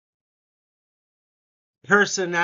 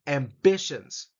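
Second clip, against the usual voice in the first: Ambitions slow with bi stressed; 2 semitones lower, slower than usual. Shown as a demonstration. Teacher modelling Ambitions for students, stress on bi. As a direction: lean on bi in Ambitions slowly. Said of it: "Second syllable emphasis".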